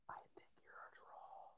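hushed, confidential aside to his guest; whispered aside. Real, not acted. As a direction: whisper it, like a secret compliment.

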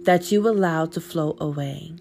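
measured meditation reading with long pauses; guided visualization. Acted. Podcast host guides listeners through a healing visualization, guided meditation voice. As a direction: lead them gently inward, pausing between instructions.

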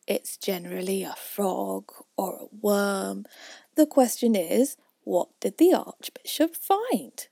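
slow, odd quacky duck; puzzled duck voice. Acted.

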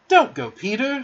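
high, urgent plea; pleading cry; entreating. A narrator's reading. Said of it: "she entreated".

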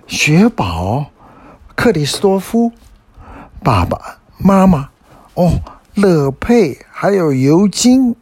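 high, lifted greeting, name by name; glad greeting. A narrator's reading. Elin greets family and friends, glad high-pitched greeting.

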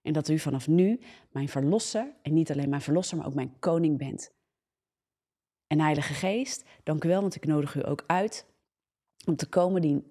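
fervent spoken prayer to God. Acted. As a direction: pray it out with devotion.

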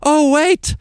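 high, loud put-on beekeeper voice; a sudden hammed-up realisation, pitched high; beekeeper Simon. Simon remembering the smoker, high hammed-up voice. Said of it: "He says".

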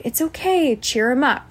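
lifted, reassuring pitch; cheering up a child. Retold or imitated. Old me consoling a crying boy, high coaxing. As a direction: reassure him to distract from the upset. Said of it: "like, try to distract".

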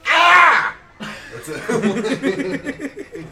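sudden high shout; Joe Biden impression. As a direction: yelp out loud and high. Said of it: "here's my Joe Biden impression".

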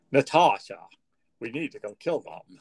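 put-on a clumsy Russian villainess accent, Natasha from Rocky and Bullwinkle; mock Russian spy accent, starts loud then drops back; bad Russian accent. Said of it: "better than the one you just attempted".

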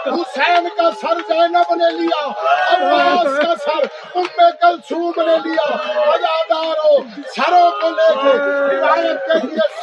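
declaimed Urdu majlis oratory; majlis lament preaching. Real, not acted. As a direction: preach the martyrs' grief to a crowd.

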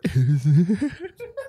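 whimpering laugh, half crying; Butters crying. Real, not acted. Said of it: "You sound like Butters crying".

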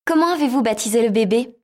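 high, bright little mouse; squeaky mouse voice. Acted. Mouse voiced in fairy tale.

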